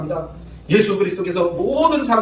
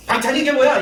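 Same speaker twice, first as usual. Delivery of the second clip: mock grumble, raised higher; grumbling complaint; 7 semitones higher than usual. Husband griping about dinner, mock grumble. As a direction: sound fed up with the food. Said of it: "이렇게 얘기할 것이 아니라".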